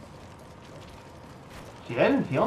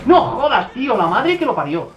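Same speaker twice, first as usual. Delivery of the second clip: much higher, louder outraged yell; angry outburst; 8 semitones higher, 7 dB louder than usual. Real, not acted. Gamer yelling when he gets killed again, outraged. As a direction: blurt out in sheer outrage.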